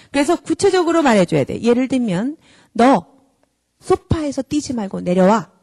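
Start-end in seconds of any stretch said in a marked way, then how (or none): 2.7-5.5 slow, plain order, 너 pushed louder; clear firm instruction. Shown as a demonstration. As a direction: tell the child exactly what to do, calmly. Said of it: "이렇게 말해줘야 돼요".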